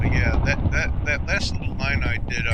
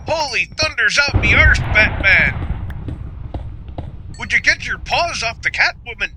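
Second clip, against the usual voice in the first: Irish Robin; 9 semitones higher than usual. Pretend. Streamer imagines Robin as Irish, hammed-up Irish accent. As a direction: shout it as an over-the-top Irish Robin. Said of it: "could you imagine if Robin was Irish".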